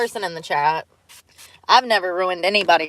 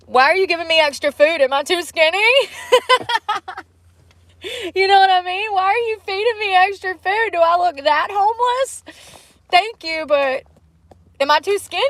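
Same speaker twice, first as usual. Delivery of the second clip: mock offended; 11 semitones higher than usual. Mock talking to fast food worker.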